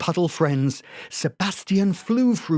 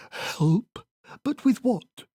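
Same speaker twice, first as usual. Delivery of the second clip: friendly puzzled voice; 8 semitones higher, slower than usual. A narrator's reading. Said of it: "liked Nofilus's friendly voice".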